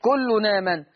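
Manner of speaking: slow "كل آمن" linked as kullu-naaman; naql. Shown as a demonstration. Teacher showing naql, "كل آمن" run together without hamza. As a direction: glide the n of "كل آمن" into the long aa. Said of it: "هيبقى فيها نقل".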